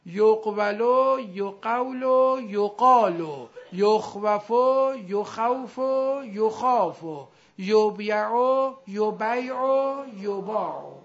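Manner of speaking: slow chant-like drill, yoq-va-lo, yo-qaw-lo, then long aa in یقالو; very slow, even recitation of each sound change; drilled conjugation steps. Shown as a demonstration. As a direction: recite each triple with stretched syllables, ending on long aa as in یباعو. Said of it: "قاعده راحت".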